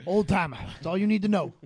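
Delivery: crusty old timer, lightly voiced; a hint of a grizzled old geezer. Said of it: "I told you I'm an old timer".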